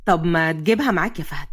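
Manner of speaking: low, mildly eager male request. A narrator's reading. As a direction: urge him with a touch of longing. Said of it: "قاسم بلهفة". (بلهفة)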